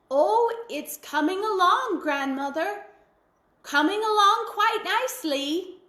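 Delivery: high, cheerful cat pretending all is fine; cat's voice. A narrator's reading. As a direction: chirp back innocently as the cat. Cat answers the witch.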